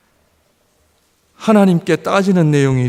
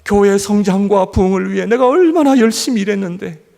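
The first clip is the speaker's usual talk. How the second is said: louder, higher complaining prayer; aggrieved prayer; 6 semitones higher, 5 dB louder than usual. Retold or imitated. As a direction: demand reward from God with indignation. Voices his youthful complaint prayer. (청년 시절 하나님께 서운함을 외치는 기도)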